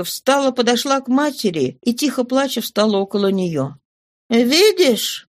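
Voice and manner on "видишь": high reproachful cry; exclaiming. Acted. Mother points husband to crying daughter, high exclamation. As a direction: throw it at him, pitched up. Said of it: "воскликнула мать".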